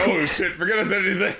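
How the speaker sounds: mock line said through laughter; laughing mock quote. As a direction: laugh while quoting the regret.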